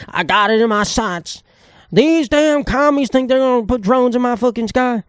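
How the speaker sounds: mock redneck growling about commies in his sky; redneck gun nut. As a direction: play a trigger-happy yokel. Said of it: "some redneck aiming at a drone".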